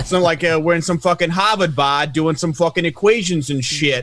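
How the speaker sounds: put-on thick Boston accent, tough guy. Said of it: "with my fucking Boston accent".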